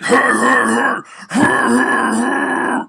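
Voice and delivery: rough, loud, raspy growled hey. Shown as a demonstration. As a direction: push it from the chest with rasp. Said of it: "you're like".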